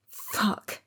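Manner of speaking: unvoiced whispered swear; whispered curse. A narrator's reading. Hurt woman on the ground curses to herself in a whisper. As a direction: hiss it under the breath in pain. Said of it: "I curse again".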